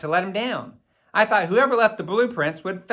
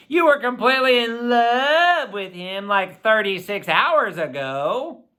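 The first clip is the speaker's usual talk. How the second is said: amazed; 5 semitones higher, 4 dB louder than usual. A narrator's reading.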